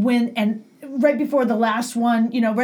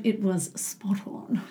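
mock British accent; 3 semitones lower, 8 dB quieter, much slower than usual. Jokes, demonstrating imagined perfect impression.

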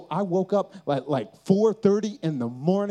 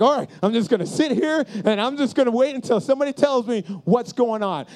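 louder, mock-defiant reply; stubborn insistence; 3 semitones higher, 5 dB louder than usual. Fan telling guard he'll wait, acted stubborn insistence. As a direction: dig in, acting out stubborn resolve.

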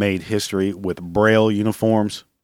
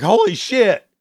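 much higher and louder, hammed-up amazement; a mocking gasp of fake discovery; mock astonishment; 9 semitones higher, 4 dB louder than usual. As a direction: play the clueless guy just discovering blindness. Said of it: "was like".

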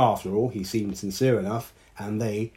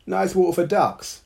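much higher, louder duck voice; 10 semitones higher, 6 dB louder than usual. Acted. Bertie the duck greeting the women in the rain, high duck voice. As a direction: chirp it like a cheerful duck. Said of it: "came a voice behind them".

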